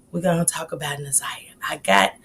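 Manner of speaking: whisper. Real, not acted. Teasing tonight's live topic.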